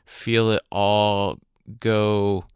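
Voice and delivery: calm, unhurried meditation guide with long pauses; guided meditation. Acted. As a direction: guide listeners gently through their breathing, leaving space between phrases.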